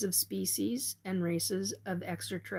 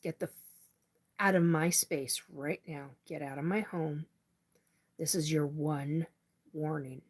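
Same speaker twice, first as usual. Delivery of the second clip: real anger; 2 semitones lower, 4 dB quieter than usual. Real, not acted. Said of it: "And now I'm pissed".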